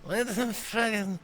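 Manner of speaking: high far baffled outburst; surprised. Acted. Dragon's surprised reaction.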